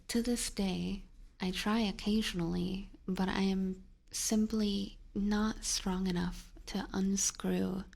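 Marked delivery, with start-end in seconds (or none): 3.1-7.8 whispering. Acted. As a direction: whisper it slowly to the mic. Whispered storytelling.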